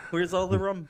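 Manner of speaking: pirate voice. Acted. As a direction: bellow it like a drunk pirate. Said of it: "You're not a pirate".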